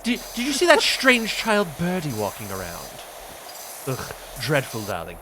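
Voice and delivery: a lightly voiced fake Astarion. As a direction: tease like a wounded aristocratic vampire. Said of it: "do my fake Astarion".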